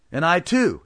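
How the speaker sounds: high, loud eager shout. Acted. Two townsmen backing the blacksmith, loud shout. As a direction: yell it from the crowd. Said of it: "shouted two others".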